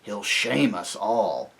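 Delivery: harsh character voice, slow and insistent; loud, exasperated aside; urgent stage whisper. A narrator's reading. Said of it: "whispered Trumpkin to Peter".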